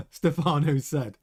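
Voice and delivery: husky, just after a cough; hoarse voice. Real, not acted. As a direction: voice giving out, rough. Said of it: "Losing my voice".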